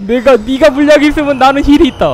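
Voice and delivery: high, loud theatrical boast; hammy villain taunt. Pretend. Streamer taunts the invader about healing, high hammy boast. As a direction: declaim it like a cartoon rival.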